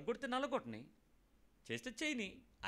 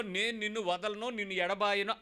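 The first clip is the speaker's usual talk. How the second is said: vow proclaimed loud and high; 3 semitones higher, 5 dB louder than usual. Shown as a demonstration. Preacher voicing the believer's vow to God, loud and lifted. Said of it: "అని నువ్వు చెప్పేటప్పుడు".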